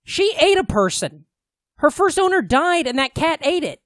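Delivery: high, chirpy retelling voice; high put-on voice, lightly mocking; imitating casual cat owners. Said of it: "all of a sudden they're like".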